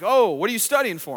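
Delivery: lightly voiced curious woman asking; a hint of a chatty woman's surprise. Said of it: "she's like".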